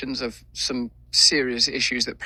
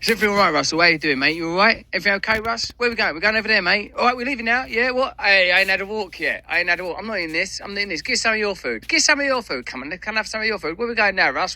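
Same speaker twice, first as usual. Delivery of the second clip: much higher, eager, loyal dog voice; a devoted dog fussing over his owner, pitched way up; Bear the dog talking; 9 semitones higher, faster than usual. Pretend. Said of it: "if Bear could talk, this is what Bear would be saying".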